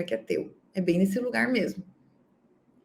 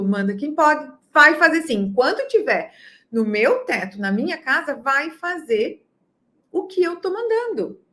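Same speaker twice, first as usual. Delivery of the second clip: mock authoritarian parent; 4 semitones higher, 4 dB louder than usual. Authoritarian parent imposing orders.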